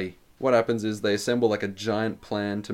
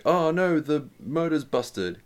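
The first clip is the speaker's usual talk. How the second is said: mock dismay; 5 semitones higher, much slower than usual. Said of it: "he's pretending".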